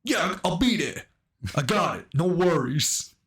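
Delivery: high, breezy, quick phone reply; a rapper on payphone. Retold or imitated. The rapper answering on the payphone, high and breezy. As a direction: toss it off easily down the phone. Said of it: "Oh, ready?".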